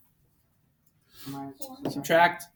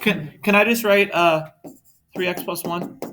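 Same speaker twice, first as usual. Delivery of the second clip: loud, higher whiny student ask; 4 semitones higher, 7 dB louder than usual. Retold or imitated. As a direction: beg it like a student. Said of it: "the whiny student voice".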